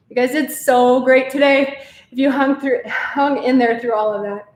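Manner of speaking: breathless after the workout; puffing between words; out of breath. Real, not acted. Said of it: "I'm still out of breath".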